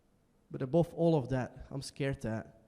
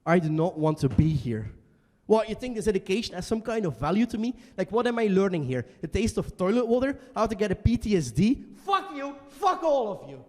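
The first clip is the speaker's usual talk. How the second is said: louder, rising anger; emotional outburst; 3 semitones higher, 4 dB louder than usual. Acted. Student at school shouting at his classmates. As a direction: explode at the whole class. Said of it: "I got a bit emotional".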